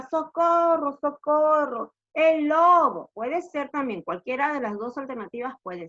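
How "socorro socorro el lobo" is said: higher, half-strength mock cry for help; imitated shout. Teacher quotes the shepherd's answer, mock shouting. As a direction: call it out as a demonstration, vowels held. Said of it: "cuando él gritaba".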